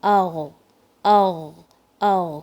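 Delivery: اغ with sound flowing, not heavy; gentle gargled ugh; flowing ghain. Shown as a demonstration. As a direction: keep اغ light and unstressed. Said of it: "stress نہیں دینی ہے".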